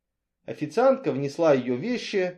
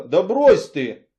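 loud, slow, brushing it off; dismissive; 4 semitones higher, 9 dB louder, much slower than usual. A narrator's reading. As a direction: wave it away, drawn out. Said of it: "отмахнулся он".

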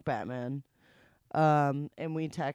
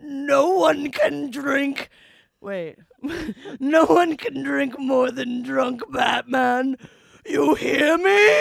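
slow, booming dramatic proclamation ending in a shout; dramatic reading; 8 semitones higher, 9 dB louder, slower than usual. Shown as a demonstration. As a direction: read it like an epic trailer voice, slow and loud. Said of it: "I'm gonna read that again in a dramatic reading".

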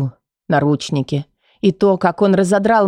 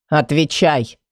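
male demand; 3 semitones lower, slower than usual. Acted. Kai demanding answer.

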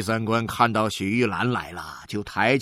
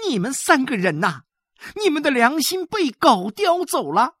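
high, loud scolding tirade; scolding mother; 13 semitones higher, 5 dB louder than usual. A narrator's reading. Mother berates her three sons, high and loud. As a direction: tear into the ungrateful sons. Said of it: "指着他们大骂了起来".

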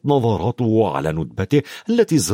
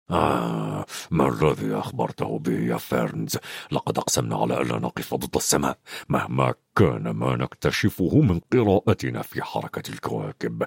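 much lower, softer growl of a centaur; growling Bane; 13 semitones lower, 6 dB quieter than usual. A narrator's reading. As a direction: growl the reproach down low. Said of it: "زمجر بين قائلا".

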